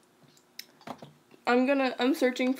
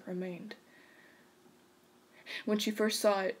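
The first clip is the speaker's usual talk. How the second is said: softer, even-pitched storyteller; narrator voice; 4 dB quieter than usual. Shown as a demonstration. Reading a scary story to friends, hushed narrator voice. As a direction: narrate quietly and steadily, hushing at the end. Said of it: "I'm gonna use my narrator voice".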